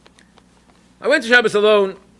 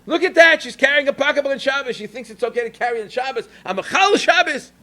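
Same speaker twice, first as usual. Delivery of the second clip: loud enough to hear; 7 semitones higher than usual. Retold or imitated. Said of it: "loud enough for her to hear".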